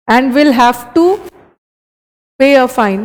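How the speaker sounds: very slow reading; slow dictation. Shown as a demonstration. Teacher slowly reading the corrected phrase to the class. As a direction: read And will have to slowly. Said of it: "reads correction".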